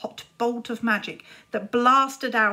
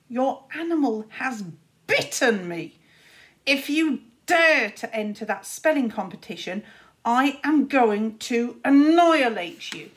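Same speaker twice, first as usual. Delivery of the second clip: angry threat; 2 semitones higher, 6 dB louder than usual. Acted. Furious threat after bite.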